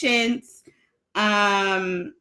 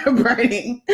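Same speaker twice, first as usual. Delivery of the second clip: laughing. Real, not acted. Still laughing, eyes watering.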